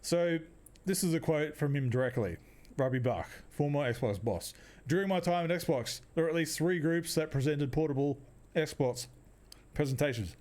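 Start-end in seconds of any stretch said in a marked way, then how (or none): 2.8-10.3 chewing while reading; reading through a mouthful of chewy; mouth full. Real, not acted. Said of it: "got chewy in my mouth".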